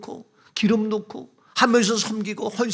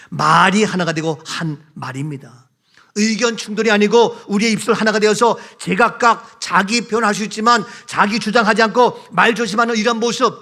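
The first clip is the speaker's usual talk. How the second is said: ordinary delivery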